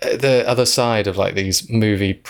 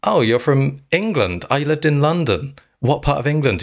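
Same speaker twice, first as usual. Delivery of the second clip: imitating a chatty Brit; 5 semitones higher than usual. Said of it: "he said".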